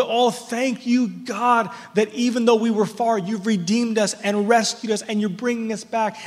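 voicing a grateful, rejoicing crowd; imitated rejoicing. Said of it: "people who are rejoicing".

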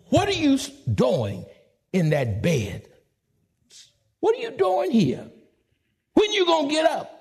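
incredulous. Acted. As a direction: wake the sleeper with a challenge. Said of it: "preacher challenging lazy listener".

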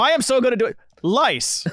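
mimicking a bad Asian accent with "lice" for rice; "lice" said with an L in place of R; childish mock accent. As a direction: swap R for L in "lice", mocking a friend. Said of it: "that's his version of it".

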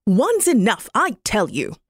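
a touch of an irritated magpie; a mildly fed-up magpie snapping back; mild angry magpie. Acted. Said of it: "the magpie got angry and said".

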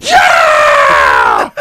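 high, loud whooping yell; mock drunk friend whooping from down the street; drunken whoop. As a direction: throw your arms up and whoop. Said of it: "puts his hands up and goes".

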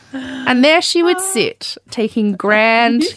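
grand and slow. Shown as a demonstration. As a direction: stretch it like a regal toast. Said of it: "repeat with more flourish".

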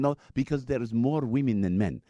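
mock Pakistani accent; bad Muslim accent. Driver explaining to passenger, in a mock Pakistani accent. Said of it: "my really bad Muslim accent".

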